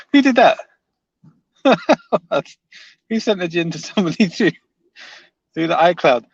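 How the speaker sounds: high, loud question through laughter; amused disbelief. Real, not acted. Streamer reacting to a silly chat comment, laughing in disbelief. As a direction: crack up while asking, incredulous.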